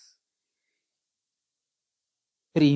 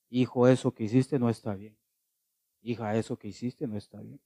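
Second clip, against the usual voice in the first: gentle, softer parental correction; corrección suave; 2 semitones lower, 4 dB quieter than usual. Shown as a demonstration. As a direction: correct the child kindly and quietly. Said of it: "Tendrías que decir". (corrección tierna y suave)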